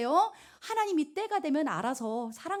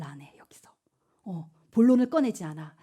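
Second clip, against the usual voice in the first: suspense whisper; 5 semitones lower, 3 dB louder than usual. Real, not acted. Preacher building suspense for the youth, whispering. Suspense about Esther's silence.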